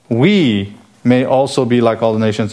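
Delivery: "We" set apart and stretched, then a pause; emphatic WE. Retold or imitated. Preacher rereads verse twenty to his listeners, emphatic on "We". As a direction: hold the word "We" for emphasis. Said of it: "is emphatic".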